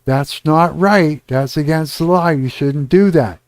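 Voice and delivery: scolding an adult. Retold or imitated. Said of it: "wag your finger and scold the child".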